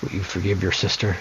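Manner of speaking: a hint of a stern mother, reading the lines; lightly voiced stern mother urging peace. Mother scolds son in game dialogue.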